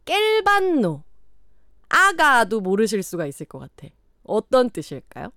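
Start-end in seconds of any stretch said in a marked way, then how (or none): 0.0-1.0 high, drawn-out Gyeongsang dialect word; single out the word with a high Gyeongsang pitch; 경상도 사투리. Shown as a demonstration. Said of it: "이거 완전 네이티브가 됐죠?". (높게 강조한 경상도 사투리)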